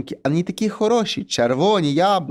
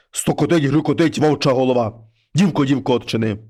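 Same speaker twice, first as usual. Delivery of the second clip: low, heavy voice of a wolf head at the door; low monster head voice; 4 semitones lower than usual. Acted. Wolf head knocks and calls the girl, low and heavy.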